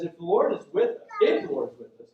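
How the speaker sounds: imitating Gideon's frustrated questioning; voiced grievance, building in emphasis. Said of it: "he's frustrated".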